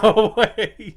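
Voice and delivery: loud, high, laughing disbelief; delighted retold exclamation; amazed. Player recalling being thrown by the Titan, amazed and laughing.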